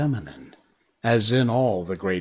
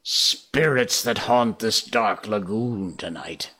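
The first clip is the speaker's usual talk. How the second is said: quivering call. Acted. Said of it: "Hook raised his voice, but there was a quiver".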